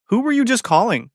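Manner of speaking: high playful tease; teasing. A narrator's reading. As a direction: tease him lightly, pitch up. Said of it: "she teased".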